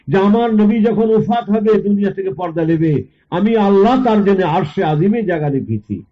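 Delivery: high-pitched solemn proclamation; fervent preaching. Retold or imitated. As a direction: proclaim it to the congregation. Preacher voices God's message.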